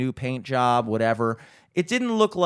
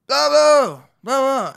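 loud, high holler to someone upstairs; big raised-voice shout, imitated; imitated yell upstairs; 13 semitones higher, 10 dB louder, slower than usual. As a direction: call up the stairs in mock gibberish. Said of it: "he yells up to".

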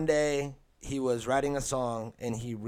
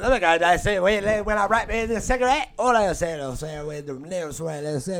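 loud, high-pitched Australian rapper parody; mock an Aussie rapper's awkward delivery, pitched up; hammed-up Australian battle-rap voice; mock Australian accent; 6 semitones higher, 5 dB louder than usual. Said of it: "raps with an Australian accent".

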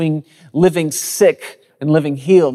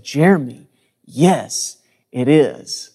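patient mother; slower than usual. Retold or imitated. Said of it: "she would just say very patiently".

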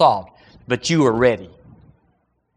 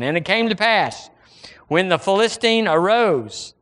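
raised-pitch pulpit reading; scripture reading; 5 semitones higher than usual. Acted. Preacher reading David and Goliath to church, declaimed scripture. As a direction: read the verse out to the congregation.

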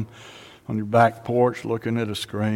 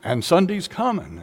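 higher, louder preaching; louder and higher, rising fervour; taking it up a notch; 7 semitones higher, 4 dB louder than usual. Retold or imitated. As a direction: build the sermon up a notch. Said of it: "he takes it up a notch".

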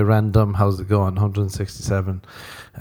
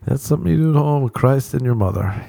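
higher-pitched mock reluctance; imitating a pop singer; 5 semitones higher than usual. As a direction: coyly decline in a raised voice. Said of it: "old Georgie boy was like".

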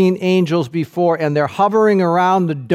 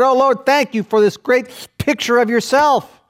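lightly raised, chirpy pious prayer voice; mock pious prayer; 7 semitones higher than usual. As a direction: sound smugly grateful, a bit too cheerful. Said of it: "It's not what he said".

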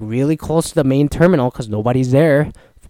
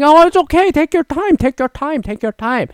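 mock island ease; 14 semitones higher, 4 dB louder than usual. Islanders telling the rushing tourist to relax, mock mellow. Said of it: "And it's like".

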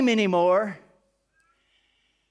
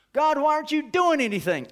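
higher, plaintive cry to God; impatient prayer, pitched up; pleading complaint; 5 semitones higher than usual. Acted. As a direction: ask like a frustrated child.

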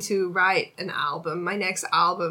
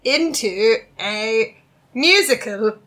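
higher, slower put-on posh accent; lightly voiced agent with a mock accent; 4 semitones higher, 6 dB louder, slower than usual. Agent pitching a musical to the singer, in a light put-on accent. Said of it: "That's a good accent".

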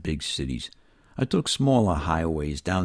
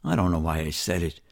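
ordinary delivery

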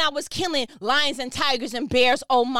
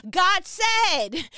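preaching shout. Real, not acted. Preaching to his audience in a shout. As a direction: cry it out with full conviction. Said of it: "I'm sorry if I'm screaming at you".

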